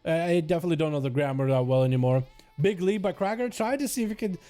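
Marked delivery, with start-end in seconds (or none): 2.6-4.4 live play-by-play. Real, not acted. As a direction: call the match as it unfolds.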